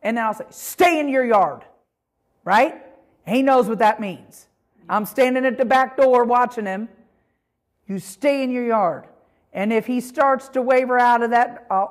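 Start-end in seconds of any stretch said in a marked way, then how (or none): 0.5-1.6 firm command to the dog; voice of authority. Shown as a demonstration. Owner ordering her dog to stay, firm authority. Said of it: "I say it with authority". 7.9-9.1 firm, controlled command; voice of authority. Shown as a demonstration. Owner at the back door watching her dog, firm. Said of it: "I say it with authority".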